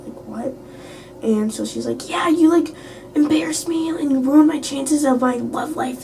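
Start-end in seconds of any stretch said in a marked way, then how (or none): 2.1-6.0 high-pitched mocking imitation; mad complaint. Retelling an embarrassed girl's complaint, mocking mad imitation. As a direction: parody her complaint in a raised voice. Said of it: "she was so mad at me".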